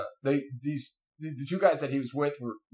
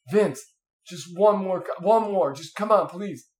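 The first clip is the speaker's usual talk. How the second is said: higher-pitched mock begging; pleading; 4 semitones higher, 4 dB louder than usual. Wounded men beg Vince for one more beer, pleading. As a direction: coax like a soldier wanting one more.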